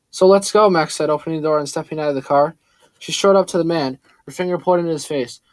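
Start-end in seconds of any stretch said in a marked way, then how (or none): 0.1-0.7 louder, higher defiant snap; defiant outburst. Acted. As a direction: fire it back at him. Max defiant, stepping out.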